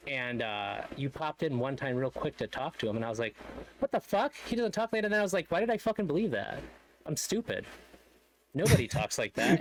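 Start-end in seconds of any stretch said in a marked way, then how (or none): 3.8-9.6 high-pitched mock bafflement at yourself; retold disbelief. Caller recounts to streamer being fooled about his accent, baffled. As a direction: replay your own incredulous realization, pitched right up.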